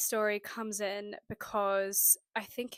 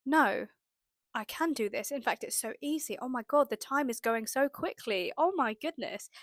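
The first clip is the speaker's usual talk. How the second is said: excited self-talk. Retold or imitated. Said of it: "I kept saying to myself".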